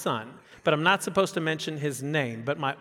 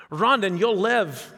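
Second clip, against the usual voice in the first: put-on weak Scottish accent; 3 dB louder, slower than usual. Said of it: "I wish I had a better, I have a better Scottish accent than that".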